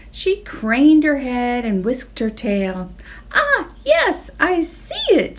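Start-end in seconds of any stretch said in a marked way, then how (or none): 3.3-5.4 high mooing cow voice; excited moo. Acted. Abigail the cow sees it, excited moo. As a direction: marvel like a thrilled cow. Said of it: "she mooed excitedly".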